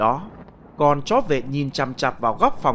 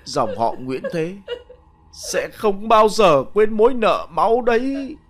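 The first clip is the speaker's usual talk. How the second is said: put-on grieving old woman; 4 semitones higher than usual. Old widow lamenting to her dead husband, tearful. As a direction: pour out grief to the dead husband.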